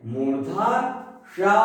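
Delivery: मूर्धा सा with a long retroflex "sha"; retroflex sibilant. Shown as a demonstration. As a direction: curl the tongue to the palate's ridge for the सा in मूर्धा सा. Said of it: "जब जीभ मूर्धा को स्पर्श करके बोलती है".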